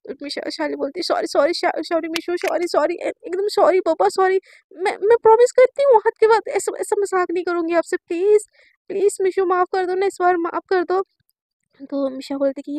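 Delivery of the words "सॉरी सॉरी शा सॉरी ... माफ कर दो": rushed, pleading sorries, loud on the promise; frantic apology. Retold or imitated. Girl apologising to her angry crush at midnight, pleading. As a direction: grovel for forgiveness.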